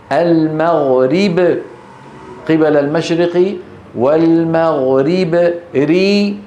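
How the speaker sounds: ري leaned toward e, slow; tilted kasra. Shown as a demonstration. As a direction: draw out the imala. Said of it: "ري هذه إمالة". (ري بإمالة نحو الفتحة ببطء)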